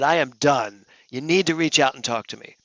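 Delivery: mildly worked-up scolding; retold angry demand. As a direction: re-enact putting your foot down. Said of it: "What are you screaming about".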